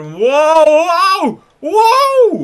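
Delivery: escalating shock, pitch climbing; rising whoa. Real, not acted. Gamer reacting to a shock save, climbing yells.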